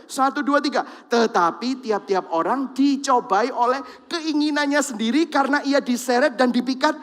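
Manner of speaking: loud group Bible reading; congregation reading aloud. Real, not acted. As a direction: read it together, steady and strong. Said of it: "kita baca sama-sama ya".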